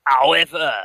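put-on loud French-accented flourish. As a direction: pivot the lecture with a hammy French accent. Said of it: "made myself laugh with my accent".

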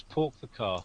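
"pork the car" with a rounded o in "pork"; mock upper-class mid-Atlantic accent. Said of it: "I thought it was".

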